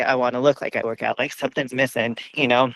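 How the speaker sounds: out of breath. Real, not acted. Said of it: "so I'm out of breath right now".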